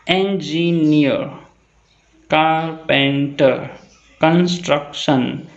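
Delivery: Engineer, carpenter, construction drawn out slowly, syllable by syllable; split into syllables. Shown as a demonstration. Teacher showing three syllables, slowly split into syllables. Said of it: "have three syllables".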